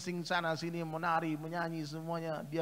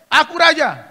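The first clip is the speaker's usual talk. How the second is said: loud, high protest; indignant shout; 10 semitones higher, 19 dB louder than usual. Acted. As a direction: insist on being king. Son shouts at guard.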